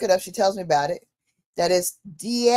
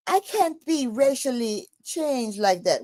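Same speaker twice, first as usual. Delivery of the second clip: a lightly put-on machine voice, a bit higher; phone AI voice; 3 semitones higher than usual. The phone AI refusing her request, mock assistant voice. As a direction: play the AI assistant, polite and a touch higher. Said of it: "talking to me in a British voice".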